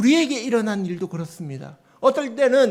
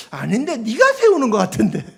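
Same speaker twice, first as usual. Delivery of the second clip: God's teasing rebuke; 5 dB louder than usual. Retold or imitated. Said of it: "주님이 그렇게 꾸짖으시는 거예요".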